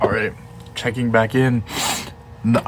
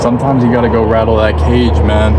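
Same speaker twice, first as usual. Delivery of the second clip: fast, loud pump-up yell; hyped shouting; 5 dB louder, faster than usual. Real, not acted. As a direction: shout it like a hype speech. Hyped bull shark rant.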